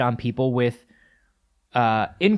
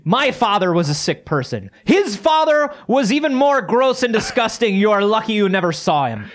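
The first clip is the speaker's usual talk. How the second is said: pompous father; 5 semitones higher than usual. Acted. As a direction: pronounce the family curse proudly to your son. Father lecturing his sick son.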